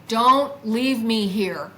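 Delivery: slow, loud retold plea. Recalling her words to the departing craft, pleading out loud. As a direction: plead out loud, dragging each word. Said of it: "I literally said this out loud".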